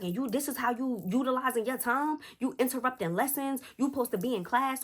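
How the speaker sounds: high-pitched list of faults; imitated stepdad lecturing a child; scolding. Stepfather scolds girl in story.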